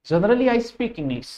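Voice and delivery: mock broken English. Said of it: "English मुझे नहीं आती है".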